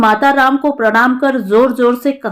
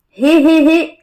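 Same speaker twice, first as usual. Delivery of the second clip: a short high hehehe chuckle; old man's chuckle; 5 semitones higher, slower than usual. A narrator's reading. Grandfather amused by Ramesh's Mumbai talk, a mild chuckle. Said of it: "दादा हंसा।".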